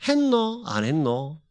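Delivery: teasing Gyeongsang question, laughing; tossed back like a Gyeongsang local; 웃으며 하는 경상도 사투리; Gyeongsang dialect. Retold or imitated. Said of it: "경상도 말로 해봐".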